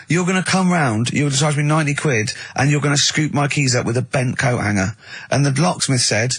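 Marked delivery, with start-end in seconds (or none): 0.1-4.9 indignant. Retold or imitated. Mate's indignant complaint.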